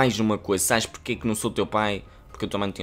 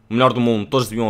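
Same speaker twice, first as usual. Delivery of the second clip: excited shout; 2 semitones higher, 7 dB louder, much faster than usual. Real, not acted. Hyping favourite youtuber loudly.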